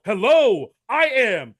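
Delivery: a hint of a boastful car-lot pitch; confident salesman GM. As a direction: sell it like a proud huckster. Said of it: "answer the phone and go".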